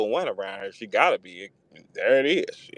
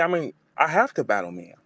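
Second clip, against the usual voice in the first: imitating Jazz; 7 semitones higher than usual. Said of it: "She said".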